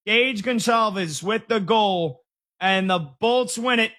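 high, slow play-by-play call; excited call. Real, not acted. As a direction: call the goal like a broadcaster. Calls the overtime winner.

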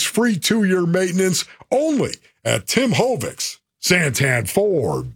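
pitchman hyping a summer sales event; upbeat live ad read with a few laughs. Acted. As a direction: sell it like a car-lot pitchman, punching the deals. Live read for car dealer.

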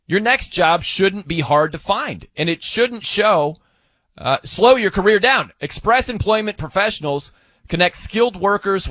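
measured radio sponsor read. Acted. Radio host pitching an employment agency to job seekers, ad read. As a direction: read the copy as a live commercial, punching key phrases.

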